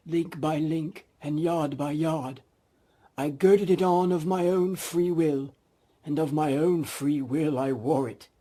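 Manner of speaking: doom-laden spectre, stretch it out; ghost voice. Acted.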